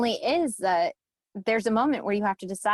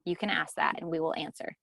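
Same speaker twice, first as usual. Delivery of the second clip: whisper; 4 semitones lower, 6 dB quieter than usual. Real, not acted. Promising answers to honest questions.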